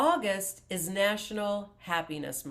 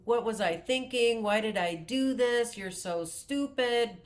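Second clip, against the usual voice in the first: berating yourself; 4 semitones higher than usual. Retold or imitated. Imitating someone berating themselves over a late bill, mock angry. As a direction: scold yourself like you messed up again. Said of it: "you start berating yourself and saying".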